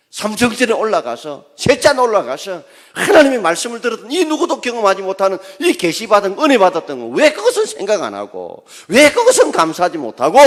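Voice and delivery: loud, high voice of God scolding; a loud, high, earnest divine reproach; God rebuking. Acted. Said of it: "하나님이 책망하시면서".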